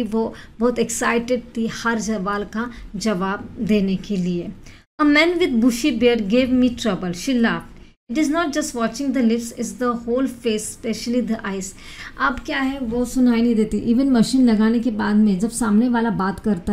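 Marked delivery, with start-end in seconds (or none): 5.0-11.8 slow, careful English reading; measured classroom reading of a text; slow reading aloud. Acted. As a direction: read each English word out slowly for students. Reads English article slowly.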